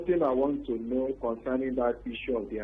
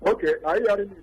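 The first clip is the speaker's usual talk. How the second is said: louder, raised voice for a bad line; speaking louder; 5 semitones higher, 4 dB louder, much faster than usual. Real, not acted. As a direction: push the voice out so the host hears. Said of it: "Can you speak louder".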